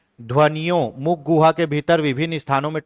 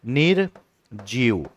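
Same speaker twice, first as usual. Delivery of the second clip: slow demo; 3 semitones lower, 4 dB quieter, much slower than usual. Shown as a demonstration. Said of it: "अब इसी को आप ऐसे भी लिख सकते हो".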